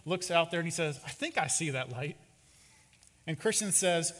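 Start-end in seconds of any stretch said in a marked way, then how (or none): 1.1-2.2 mildly hesitant, understated reply; a touch of meekness; timid. Acted. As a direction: answer a little unsurely. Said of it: "very timid".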